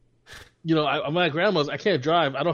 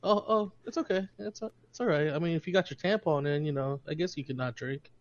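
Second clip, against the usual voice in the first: mocking cousin; 5 dB quieter than usual. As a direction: needle him in a syrupy voice. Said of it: "he'll say things like".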